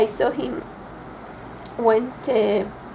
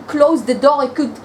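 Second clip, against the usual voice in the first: loud, insistent self-reproach; agitated regret; 5 dB louder than usual. Acted. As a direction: pour out the regret forcefully. Agonised regret over not preventing death.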